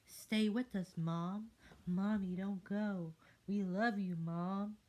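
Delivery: put-on high, loud begging kids; pleading child voices. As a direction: cry out for mom to stay. Tadpoles plead with mother.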